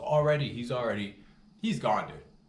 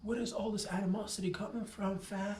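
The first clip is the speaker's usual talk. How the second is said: high, mocking taunt at the little guy; 11 semitones higher than usual. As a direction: rib him in a squeaky sneer. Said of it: "I'm like".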